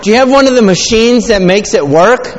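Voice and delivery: put-on high, loud, wide-eyed kid asking; loud excited child's question. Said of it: "They're like".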